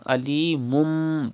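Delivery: Alimum with the tanween turned to a nasal mim; iqlab with ghunna. Shown as a demonstration. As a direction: hum the mim slowly in Alimum. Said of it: "change tanween into mim and do gunna".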